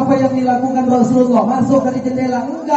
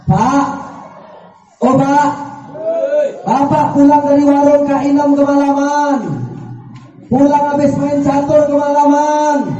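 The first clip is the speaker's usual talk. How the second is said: higher, complaining nag, each line pressed harder; nagging wife; 6 semitones higher than usual. Acted. Wife nags her husband about coming home late, higher mock scolding. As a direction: list every late night at him like a charge.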